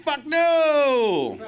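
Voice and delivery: high, loud yelled no; mock shouted refusal. Drinking friends turning down a meeting, loud high yell. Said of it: "They were like".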